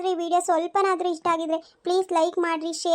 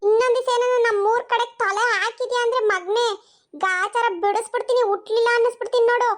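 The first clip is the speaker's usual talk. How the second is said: higher, raised menacing warning; angry threat; 4 semitones higher than usual. Acted. Village woman warning the harasser off, angry threat. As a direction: threaten him to never come back.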